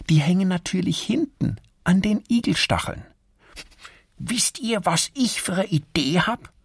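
high squirrel voice, eager; excited squirrel idea. Acted. A squirrel explains the hedgehog cleanup idea. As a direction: pitch a clever plan to friends.

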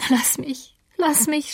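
a touch of sobbing, pitched high; half-sobbed lass mich; sobbing plea. Acted. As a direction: beg to be let go through mild tears. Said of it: "schluchzte Catherine".

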